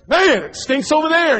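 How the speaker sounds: wrinkle your nose at it; disgusted complaint. Retold or imitated. Man pacing the house, grossed out. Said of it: "walked over there and".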